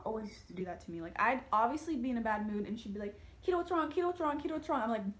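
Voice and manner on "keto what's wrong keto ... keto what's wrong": higher, pestering mom voice; a mom who keeps asking what's wrong; nagging mom. Retold or imitated. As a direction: mimic mom asking over and over.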